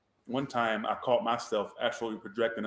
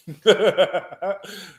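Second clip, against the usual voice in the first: villain laugh; 7 semitones higher, 7 dB louder than usual. Acted. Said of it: "I got a villain laugh".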